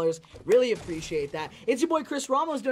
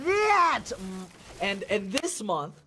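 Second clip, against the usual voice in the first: high, punchy hype yell; hyped mock shout; 6 semitones higher, slower than usual. Hyping viewers about this month's shout outs, hyped mock shout. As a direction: burst it out high and drawn out.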